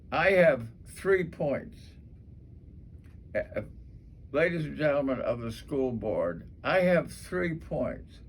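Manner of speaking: clear, deliberate speech to the school board; formal speech. Shown as a demonstration. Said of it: "what we want to say is".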